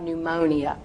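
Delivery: "pneumonia" as "new-MOH-nee-uh"; over-precise syllables. Acted. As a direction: say all four syllables of "pneumonia". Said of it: "that is technically correct".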